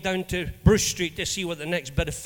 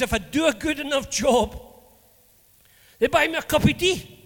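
higher and louder, beaming with pride; proud boast; 7 semitones higher, 4 dB louder than usual. Retold or imitated. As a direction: sell it like the best job in town. Retold proud boast of job.

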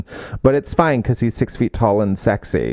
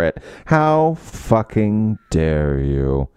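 sarcastic scolding; slower than usual. Retold or imitated. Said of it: "that whole point of that scene was".

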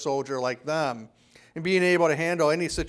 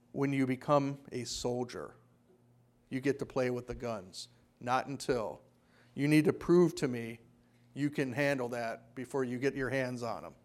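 very soft, low and deliberate; hushed low voice with measured pauses; low drill sergeant; 6 semitones lower, 10 dB quieter than usual. Retold or imitated. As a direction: imitate a towering sergeant quietly putting a recruit in his place. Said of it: "in his very low, deep baritone voice".

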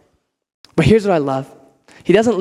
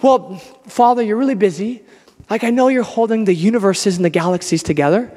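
mock-meek, lower-pitched hesitant prayer; timid prayer; 3 semitones lower than usual. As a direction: act out someone reluctant to bother God. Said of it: "Is that how we're supposed to pray?".

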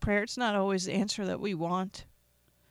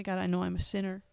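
quiet prayer; 3 dB quieter, faster than usual. Shown as a demonstration.

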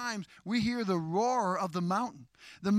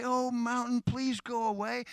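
slightly higher, thin-willed timid plea; timid mouse; 5 semitones higher than usual. Acted. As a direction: plead lightly like a mouse in the corner. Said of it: "Don't be a mouse in the corner".

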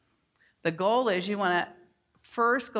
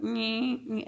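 mock printer noise; 4 semitones higher than usual. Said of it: "my printer went".

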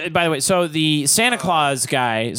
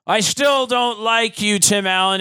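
mock grudging old man; 6 semitones higher than usual. Old man to Tim Allen, hammed-up grudge. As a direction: drag it out with spite.

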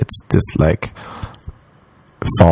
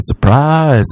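higher-pitched retold surprise cheer; mock party cheer; 6 semitones higher than usual. Partygoers greeting someone as he walks in, mock cheer.

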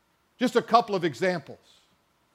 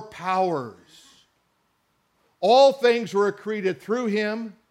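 drawn-out, weighty reading of the verse; solemn read from the pulpit; slow scripture reading; slower than usual. Acted. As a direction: let every phrase land slowly. Reads Colossians verse with slow weight.

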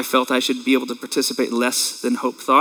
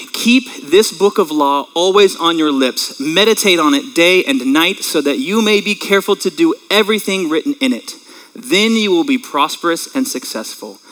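scripture reading. Acted. Pastor reading Joshua to the congregation, measured and solemn. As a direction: read the verse with weight.

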